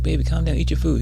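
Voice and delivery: high, loud acted wife; urgent placating. Wife urgently soothing angry husband, acted.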